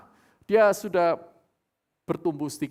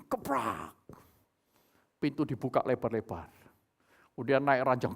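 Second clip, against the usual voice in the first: ordinary talk, nothing marked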